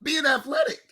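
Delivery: shouting. Real, not acted. Heated sports argument.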